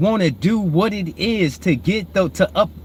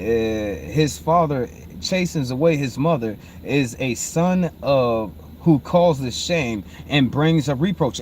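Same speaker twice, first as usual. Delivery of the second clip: scripture reading; 6 semitones lower, slower than usual. Real, not acted. Reads a verse aloud.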